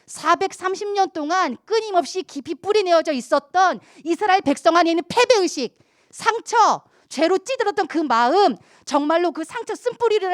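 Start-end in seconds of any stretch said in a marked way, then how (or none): none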